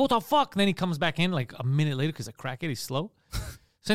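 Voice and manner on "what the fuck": high-pitched mock road-rage blurt; indignant retold exclamation; retold outrage. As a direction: recount it with an indignant jump in pitch. Retold honking at driver.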